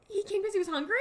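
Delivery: fast, breathless, whispered laughter; laughing whisper. Real, not acted. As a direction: wheeze it out laughing. Breaks up at Hondo line.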